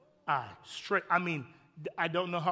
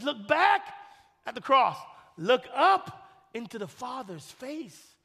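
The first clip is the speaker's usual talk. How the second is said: loud sermon proclamation; proclaiming loudly; 5 semitones higher, 11 dB louder, slower than usual. Acted. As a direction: declare it to the room. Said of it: "He says".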